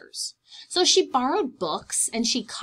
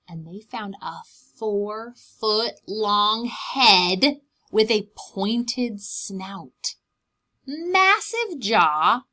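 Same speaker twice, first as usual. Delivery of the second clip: slow dramatic build; 6 dB louder, much slower than usual. Acted. Dramatic reveal of fossil head.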